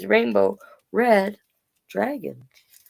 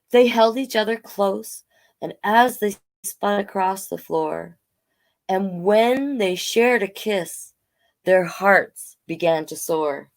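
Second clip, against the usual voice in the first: storybook read-aloud in rhyme; story narration; 3 semitones higher than usual. A narrator's reading. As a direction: tell it gently like a bedtime tale.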